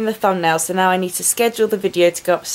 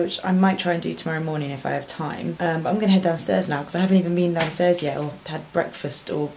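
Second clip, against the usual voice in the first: whisper; 5 dB quieter than usual. Real, not acted. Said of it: "I have to whisper 'cause Honey's asleep".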